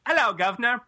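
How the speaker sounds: a hint of Welsh, lifted at the end; mock Welsh accent. Shown as a demonstration. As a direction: greet in a badly faked Welsh accent.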